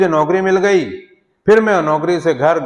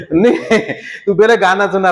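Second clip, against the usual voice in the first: laughing. Acted. God laughing at a singer's question.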